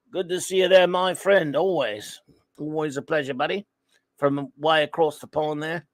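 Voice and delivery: lightly attempted British accent; half-hearted go at a British accent; playfully botched British accent greeting; wrong British accent. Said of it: "I don't know what, what wrong accent".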